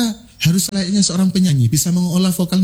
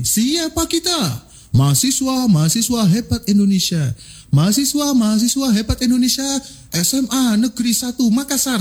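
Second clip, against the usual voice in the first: energetic yel-yel; 6 semitones higher than usual. Shown as a demonstration. Trainer leading students in a yel-yel, high rallying chant. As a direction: pump up the students with a call and answer. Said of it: "saya pakai kalimat mesti gini".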